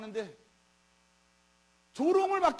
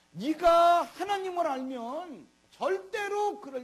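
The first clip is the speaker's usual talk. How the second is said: slow, higher and louder, every word pressed; emphatic preaching; 5 semitones higher, 5 dB louder, slower than usual. Real, not acted. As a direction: hammer home that it could never be. Preacher stresses a point. (천천히 힘주어 외치듯)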